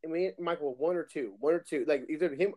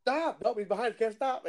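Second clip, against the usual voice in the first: tag; 5 semitones higher than usual. Retold or imitated. Retells driver who cannot stop.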